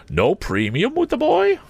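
cold lady of the house looking them over; Miss Havisham. A narrator's reading. Miss Havisham addressing Joe, haughty.

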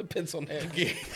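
slow, laughing wrestler growl; wrestling promo. Acted. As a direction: savor the insult like a wrestler. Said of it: "Hard Times promo".

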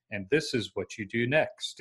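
lightly mimicked monotone coach on tape; monotone imitation. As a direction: imitate a dull instructional-video voice, quietly. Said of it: "with a very monotone voice".

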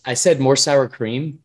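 slow, irritated repeat of the order; mock impatient customer; annoyed customer. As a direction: spell it out slowly like he's fed up. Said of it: "and he goes".

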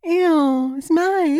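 high, loud squeal of revulsion; hammed-up squeamish protest; mock disgust. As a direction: recoil with a loud, high-pitched ick. Acted reaction to dirty talk.

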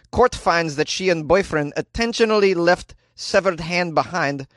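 a light put-on Slovenian accent. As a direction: read the news in a hint of Slovenian accent. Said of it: "I can do an accent that's close".

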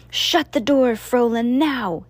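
sharp, high, loud hissed order; hissed command. Acted. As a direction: snap at the servant to shut it. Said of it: "hissed the alchemist".

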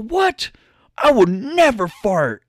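high, indignant mock-angry squawk; offended old man denying a fart, in a mock-angry voice; mock outrage. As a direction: play the insulted old guy, voice jumping up high. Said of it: "he gets pissed off and mad".

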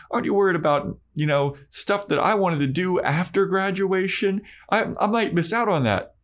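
put-on quick, high-pitched worried rant at her boyfriend; panicky Willow. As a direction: imitate Willow spiralling into panic.

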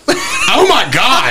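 mock-disgusted mom, high on "Oh"; a hammed-up groan of disgust; mom's disgust. Mom smelling the hallway, mock disgusted, high on "Oh". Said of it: "you'll just see Mom just like".

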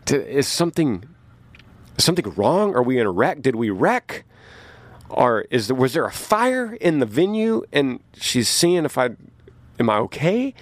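half-awake alarm, voice climbing; confused alarm. Retold or imitated. Singer waking confused in his bunk, mildly alarmed and rising. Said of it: "So I'm thinking".

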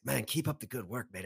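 imitated Australian fan; lightly put-on Aussie accent; mock Australian praise. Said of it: "tall, strapping Australian young man".

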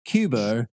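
Cuba with a British R tacked on. Retold or imitated. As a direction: say Cuba like a British guy, Cuber. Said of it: "with the British".

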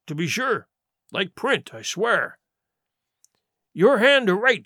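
put-on sardonic old sea cook; Silver, mockingly genial pirate. Silver reading his black spot before George, mockingly genial. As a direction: toy with the challenger in a lilting pirate voice.

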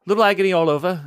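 bursting out through the pain. Acted. Ella touched on her hurt back, strained wince.

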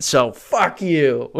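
drawn-out slow defiant jab; slow mock defiance. To imagined critics, slow mock-spiteful fuck you.

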